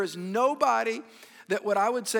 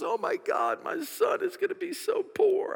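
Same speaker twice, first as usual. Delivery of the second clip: mother's whisper; 11 semitones higher than usual. Retold or imitated. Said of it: "And she goes".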